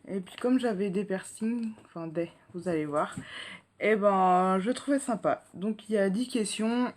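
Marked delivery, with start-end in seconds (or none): 5.5-6.9 talking while chewing gum. Real, not acted. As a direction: speak around a chewing gum. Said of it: "oui désolé j'ai un chewing-gum".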